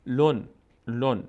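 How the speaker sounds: "لون" said slowly with a clear final n; tanwin n ending. Shown as a demonstration. Teacher demonstrating tanwin, slow "لون" with n sounded. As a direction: close each "لون" on a still n. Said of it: "یک صدای نون ساکن باید آخرش بیاریم".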